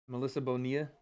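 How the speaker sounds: "Bonilla" with the double L said as a Y sound, bo-NEE-ya; Spanish name pronunciation. Shown as a demonstration. Streamer showing off announcer-style name, Bonilla with LL as Y. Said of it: "you see how I did the double L's with the Y".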